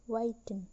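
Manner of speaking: whiten with the stress kept on whi. Shown as a demonstration. Teacher showing a neutral suffix, whiten stressed on whi. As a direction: say whiten, leaning on the first syllable. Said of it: "The stress remains on Y".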